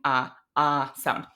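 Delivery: "ah" stretched as an open front vowel; exaggerated ah. Shown as a demonstration. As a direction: open the jaw wide on "ah". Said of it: "Now I'm kind of exaggerating".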